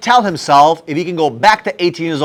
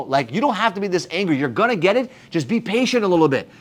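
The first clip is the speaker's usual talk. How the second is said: calming; 5 dB quieter than usual. Retold or imitated. Calming angry younger self.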